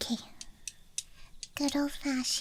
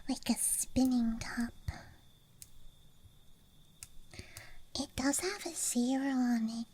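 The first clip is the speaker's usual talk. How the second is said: ASMR whisper. Real, not acted. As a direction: whisper close to the mic. ASMR dice show-and-tell.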